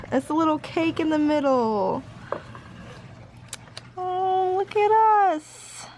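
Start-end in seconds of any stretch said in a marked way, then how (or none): 4.0-5.8 slow, delighted. Real, not acted. Looking at their photos.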